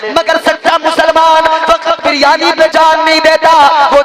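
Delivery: high, ringing sermon lament; impassioned preaching. Acted. Preacher lamenting empty mosques at dawn prayer, high and impassioned.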